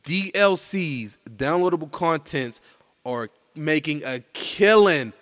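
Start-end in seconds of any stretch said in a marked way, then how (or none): 3.0-5.1 slow words pushed out through a burp; talking through a burp. Real, not acted. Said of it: "Excuse me, burp, burp".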